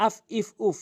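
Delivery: আফ ইফ উফ with short vowels closing straight onto f; jazm without stretching. Shown as a demonstration. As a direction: join each vowel of আফ ইফ উফ to its f, undrawn. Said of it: "কোনো টেনে পড়া যাবে না".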